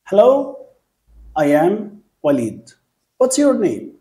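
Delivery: bright teacher demo of a greeting, rising hello; model dialogue demo. Shown as a demonstration. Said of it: "لف بقى على كل الشقة بتاعتك بنفس الطريقة".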